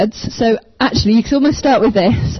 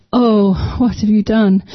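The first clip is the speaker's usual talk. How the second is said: heartbroken. Retold or imitated. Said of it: "I just felt God's heart breaking".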